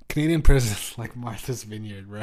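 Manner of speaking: laughing punchline. Real, not acted.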